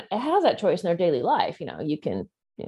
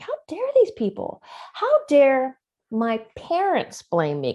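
higher, indignant outcry, then slower; righteous anger; 4 semitones higher than usual. Retold or imitated. Survivor recalling her parents' blame, indignant outcry. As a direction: let the indignation burst out, then drag it. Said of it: "this sense of righteous anger".

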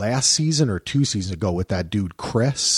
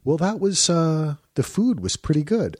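mild mock husband; 7 semitones higher than usual. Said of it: "He'd be like".

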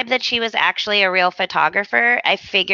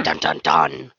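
much lower dramatic suspense sting; dramatic dun dun dun. Pretend. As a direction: voice an ominous reveal cue.

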